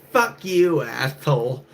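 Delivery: high loud mock snap at a stranger; woman in parking lot yelling back, mock angry; retold angry yell. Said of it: "she goes".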